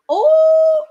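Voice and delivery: excited yelp. Real, not acted. Recalling a tease, yelping with excitement. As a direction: burst out in excitement. Excited outburst mid-sentence.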